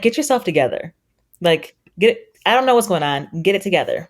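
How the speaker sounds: stern parent. Retold or imitated. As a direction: replay your old impatient self. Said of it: "I used to tell my kids".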